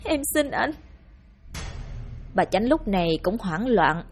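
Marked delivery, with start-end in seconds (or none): 0.0-0.7 faint whisper-like plea. Acted. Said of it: "Cô chỉ biết thều thào".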